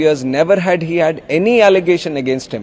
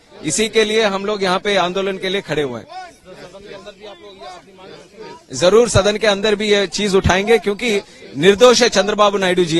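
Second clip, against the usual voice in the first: fast impassioned speech; 4 semitones higher, much faster than usual. Real, not acted. Politician speaks fast at protest.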